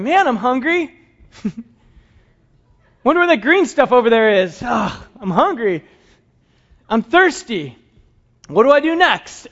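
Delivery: lightly voiced clueless sheep, whining; a hint of a dopey, wandering sheep; dim sheep. Preacher mocking a sheep's aimless thoughts, lightly whining. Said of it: "Sheep will wander around going".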